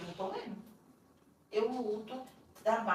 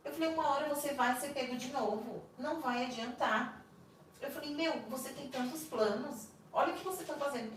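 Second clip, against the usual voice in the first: desperate retold pleading; 6 semitones higher than usual.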